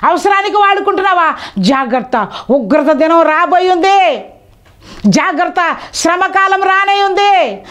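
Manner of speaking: high, slowing solemn warnings building up; fervent pulpit warning of judgement; preaching warning. Acted. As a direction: warn the flock, each line weightier.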